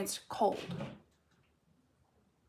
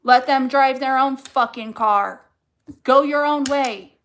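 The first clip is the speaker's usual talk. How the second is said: louder, fired-up push; rising passion, driving the point home; getting passionate; 2 semitones higher, 7 dB louder than usual. Real, not acted. Telling viewers to leave those who don't value them, passionate and louder. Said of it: "Ooh, I'm getting passionate".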